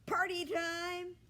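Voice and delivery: high, loud and slow joyful cheer. A narrator's reading. Ernest the pig announcing the party, joyful. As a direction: celebrate it with delight. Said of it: "he said joyfully".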